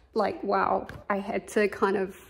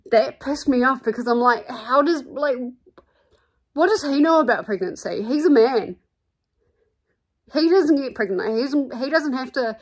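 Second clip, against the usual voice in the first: higher, louder outraged rant; indignant rant; 4 semitones higher, 4 dB louder than usual. Real, not acted. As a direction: vent your real outrage. Ranting about sexist boss.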